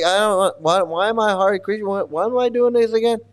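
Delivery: high, incredulous questioning; bewildered ex-devotee. Retold or imitated. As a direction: act out a confused devotee who forgot why. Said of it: "He's like".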